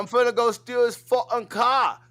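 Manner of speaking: high, loud Aussie caricature; mock Australian accent. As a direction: play a rowdy Australian thug, hammed-up. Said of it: "how the fuck you guys talk".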